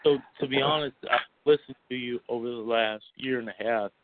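talking with the hiccups. Real, not acted. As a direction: hiccups break up the words. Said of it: "I've had the hiccups all day".

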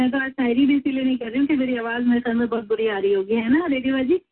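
real hoarse throat. Real, not acted. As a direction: talk through a hoarse throat. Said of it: "मेरा गला बैठा हुआ है".

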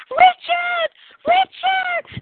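high, loud call across the crowd. Retold or imitated. Woman spotting her love on the balcony, high loud call. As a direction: call Richard's name up to the balcony. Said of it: "and she goes".

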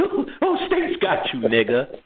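high laughing tease; laughing taunt. Retold or imitated. Teasing friend over the phone, high laughing taunt. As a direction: crow at him, still laughing. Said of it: "And I'm laughing".

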